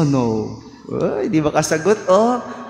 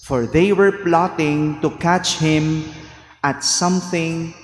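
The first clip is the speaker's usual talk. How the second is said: Gospel reading; 2 semitones lower than usual. Acted. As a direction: read it like scripture at Mass.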